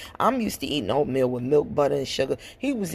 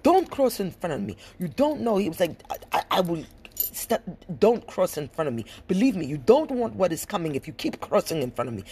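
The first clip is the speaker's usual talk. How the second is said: mock foreign-accented warning; Musa; 4 semitones higher than usual. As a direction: imitate an irate man's foreign accent. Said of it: "this is where the foreign shit comes out".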